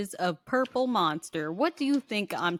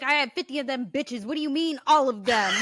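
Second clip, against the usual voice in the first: fast, higher-pitched mock panic, getting louder; freaking out; 4 semitones higher, 3 dB louder, faster than usual. Retelling roommate learning all the packs were eaten, mock freak-out. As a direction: act out a friend losing it. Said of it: "he started freaking out".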